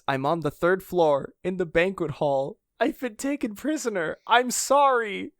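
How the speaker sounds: Sanji. Acted. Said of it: "it's Sanji's voice".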